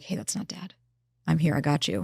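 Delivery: soft, gentle self-talk; hushed reassurance to oneself; reassuring. Retold or imitated. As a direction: softly comfort a frightened younger self. Reassuring her younger self.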